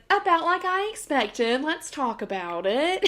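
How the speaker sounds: retold singsong acknowledgment; playful knowing reply. Quoting her phone reply, singsong.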